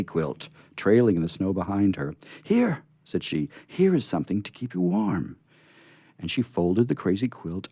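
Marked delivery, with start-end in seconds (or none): 2.4-5.4 put-on little girl voice. Betsy offering the quilt.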